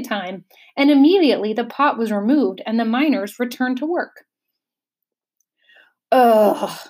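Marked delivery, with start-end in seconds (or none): 6.1-6.8 a sudden, louder gasping ugh; gasped ugh. Acted. The bug, realizing he is starving, gasps ugh. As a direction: gasp it out as hunger hits you. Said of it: "gasped the bug".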